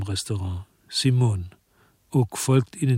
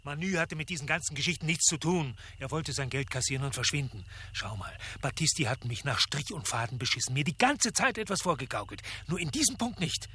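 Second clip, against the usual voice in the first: hushed protest; 5 semitones higher, 9 dB quieter than usual. Acted.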